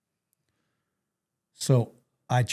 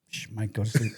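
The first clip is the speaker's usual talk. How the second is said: whispering over a crib; 4 semitones lower, 9 dB quieter than usual. Pretend. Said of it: "I'm like, "Lay down, close your eyes".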